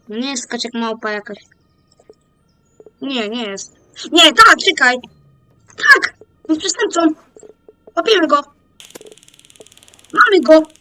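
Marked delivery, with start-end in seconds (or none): 4.1-10.7 excited. Real, not acted. Catching a criminal in game.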